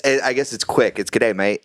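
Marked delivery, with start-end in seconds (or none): 1.1-1.6 Australian accent. Shown as a demonstration. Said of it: "my Good Day Mate was the best".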